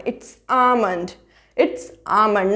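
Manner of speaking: almond said slowly as aa-mund; almond drawn out with a silent l; ah-mund, slow and careful; slow correct almond. Shown as a demonstration. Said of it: "आलमंड गलत होता है".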